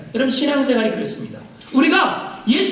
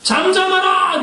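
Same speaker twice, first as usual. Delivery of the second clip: a sharp, mock-stern hush; crowd's rebuke; 5 semitones higher, slower than usual. Crowd silencing the blind beggar, mock-stern. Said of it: "사람들이 뭐라 그래요?".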